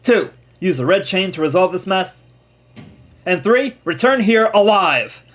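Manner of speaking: lightly voiced commander's orders; game commander giving orders. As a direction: count off the orders firmly, stressing the last. Reads Cyllene's orders in the game.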